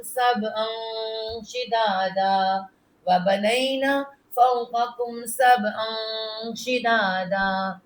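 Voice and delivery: slow, measured tilawat; slow melodic Quran recitation. Acted. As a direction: chant each verse slowly and evenly for the pupil. Leads the recitation.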